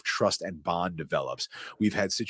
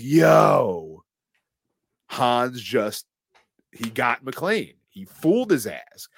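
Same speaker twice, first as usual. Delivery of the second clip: loud, amazed burst; excited; 3 semitones higher, 6 dB louder, slower than usual. Retold or imitated. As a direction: blurt it like you just saw the twist. Reacting to the scene as a viewer.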